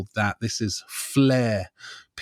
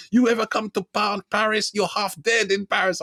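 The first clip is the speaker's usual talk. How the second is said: mock French threat; 8 semitones higher than usual. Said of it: "He was like".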